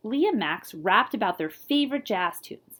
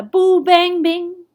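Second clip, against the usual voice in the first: playful scat; 8 semitones higher, 10 dB louder, slower than usual. A narrator's reading. Reading playful scat sounds.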